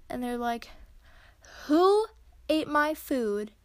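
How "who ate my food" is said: indignant outburst. Retold or imitated. Roommate discovers missing food.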